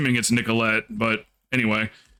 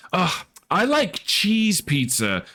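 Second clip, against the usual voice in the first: mock whiny complaint; 7 semitones higher, slower than usual. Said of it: "she goes".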